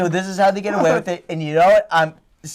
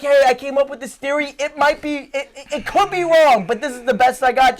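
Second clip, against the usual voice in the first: humble scientist; 6 semitones higher than usual. Retold or imitated. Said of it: "You just be like".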